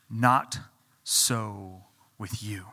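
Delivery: slow, hushed and intimate; whispered emphasis. Acted. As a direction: drop to a whisper on the last words. Jesus' words read, dropped to whisper.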